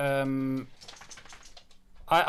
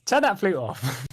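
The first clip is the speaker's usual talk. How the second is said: mock yell; 6 semitones higher, 4 dB louder than usual. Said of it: "yells at one of the".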